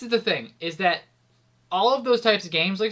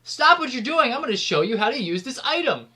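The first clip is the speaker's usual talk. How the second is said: bossy game tutorial; 4 semitones higher than usual. Retold or imitated. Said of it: "it doesn't be like".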